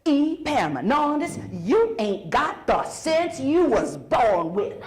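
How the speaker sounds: mildly scolding mama, slow; a hint of mama with hands on hips. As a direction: slowly lay into him like a fed-up mother. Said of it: "she puts her hands on her hips and she says".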